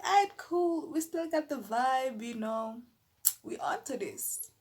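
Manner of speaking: keen and cheerful; eager agreement. Retold or imitated. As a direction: sound game for the night. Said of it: "we were like".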